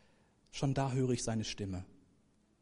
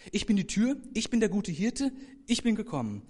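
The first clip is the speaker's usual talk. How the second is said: loud, high, each "ich bin" driven home; emphatic recital; 7 semitones higher, 4 dB louder than usual. Real, not acted. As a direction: proclaim the three sayings. Reciting the I-am sayings. (Prediger ruft die drei Ich-bin-Worte laut aus)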